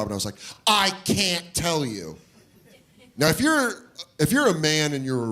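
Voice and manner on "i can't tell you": put-on high, slow timid kid voice; meek slow refusal; small kid refusing. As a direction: hold out like a scared little boy.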